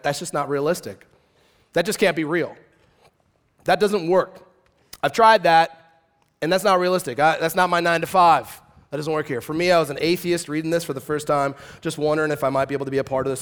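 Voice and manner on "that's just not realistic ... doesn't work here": scoffing disbelief. Retold or imitated. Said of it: "you went".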